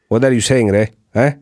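Mediterranean lilt ending on eh; Italian-Cypriot lilt with a tag eh; Italian accent. Shown as a demonstration. Cypriot-Italian accent for the host. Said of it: "a very Italian thing".

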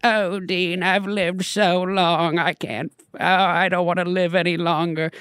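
put-on slow, high, world-weary old British lady; imitating a frail ninety-year-old's lament; British grandmother. Grandmother laments to Dean about living long, elderly British voice. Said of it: "it's kind of like a ninety year".

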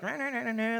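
quick imitated grumpy squabbling; mock grumpy. Preacher mimics Christians arguing over views, mock grumpy. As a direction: imitate people bickering in a grumpy babble. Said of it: "They're kind of grumpy".

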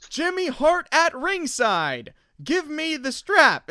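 high, slow mock Hogan shout; imitating Hogan. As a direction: ham up the wrestler demand. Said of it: "just the fact that he would say".

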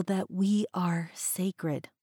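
soft unvoiced whisper. Real, not acted. Host whispering an affirmation to her listeners, hushed. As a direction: breathe the words out as a whisper.

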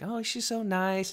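high, slow, gushing imitation; super nice. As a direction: coo it sweetly, put-on. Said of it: "She's always like".

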